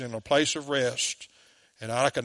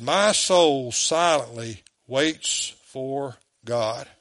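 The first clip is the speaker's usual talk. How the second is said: slow scripture reading; 3 semitones lower, much slower than usual. Acted.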